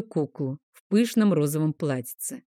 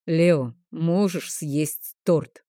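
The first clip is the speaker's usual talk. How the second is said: cutting retort; much slower than usual. Acted. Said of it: "внезапно отбрил Крокс".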